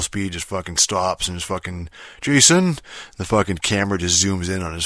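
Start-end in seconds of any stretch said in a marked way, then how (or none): 2.2-2.8 sudden high, loud shout of a name; mock shout. Dad bursting into an empty store shouting for his son, loud shout. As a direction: bellow the name out of nowhere. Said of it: "walks into my fucking store and yells".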